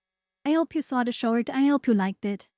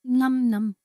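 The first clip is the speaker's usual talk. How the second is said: munching an apple; chewing while talking; mouth full. Real, not acted. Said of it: "now I'm munching on an apple".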